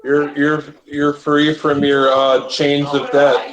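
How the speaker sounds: slow, solemn mock proclamation; slow solemn quote. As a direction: drawl it like a grave oath. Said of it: "Robot Chicken making a joke".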